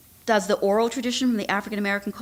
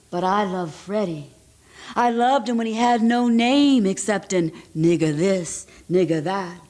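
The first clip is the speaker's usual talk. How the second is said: voicing Anna. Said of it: "So here's Anna".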